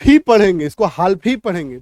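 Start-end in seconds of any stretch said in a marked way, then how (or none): 0.9-1.3 हाल्फ with the L heard before F; wrong L-sounded half. Acted. Teacher acting learners who insist on misreading, L pronounced. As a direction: say हाल्फ, keeping the L in. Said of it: "उच्चारण गलत हो जाएगा".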